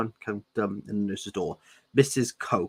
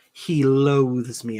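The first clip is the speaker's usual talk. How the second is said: cheerful; 2 semitones higher, 4 dB louder, much slower than usual. Acted. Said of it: "Edward said cheerfully".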